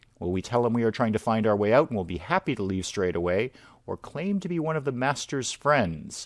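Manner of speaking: usual speaking voice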